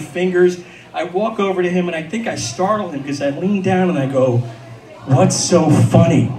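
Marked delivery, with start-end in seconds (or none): 5.1-6.3 slow, pointed challenge; demanding. Retold or imitated. Confronting the old trucker, slow and pointed. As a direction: lean in and demand an answer.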